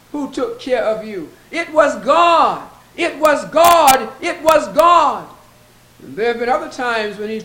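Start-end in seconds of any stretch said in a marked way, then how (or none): 1.5-5.3 preaching emphasis. Acted. Preacher repeats refrain.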